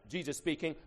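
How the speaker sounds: usual speaking voice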